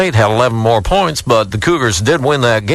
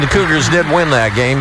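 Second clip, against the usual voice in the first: Bob Robertson impression; 4 semitones higher than usual. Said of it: "do Bob Robertson".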